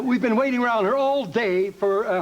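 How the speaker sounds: a hint of a seagull voice; lightly voiced gossipy gull; doing Gertrude the seagull on request. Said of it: "Gertrude and Heathcliff".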